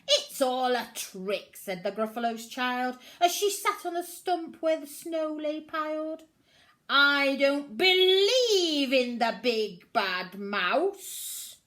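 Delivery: a small monster who refuses to believe; high loud stubborn child voice; defiant little Gruffalo's child. Acted.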